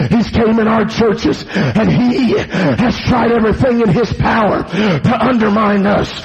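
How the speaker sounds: urgent sermon rhythm, gasping between phrases; full-force preaching. Acted. Warning that the devil came in our churches, full-force preaching. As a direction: drive each phrase at the congregation.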